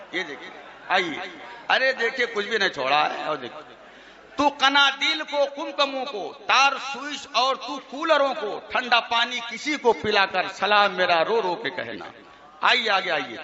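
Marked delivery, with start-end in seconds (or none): 4.4-12.1 tuneful verse recital, lightly mocking; reciting a rival's verses to make fun of them; mock poem recitation. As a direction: chant the couplets with a half-hidden smile. Recites mocked salaam verses.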